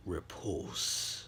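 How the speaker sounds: low whispered single word; whispered command. Acted. Izuku casting his quirk, low whisper. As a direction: breathe the word out like a spell. Izuku uses power coldly.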